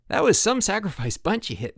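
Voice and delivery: hollow counselor pep; forced enthusiasm. A narrator's reading. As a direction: fake the praise. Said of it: "with forced enthusiasm".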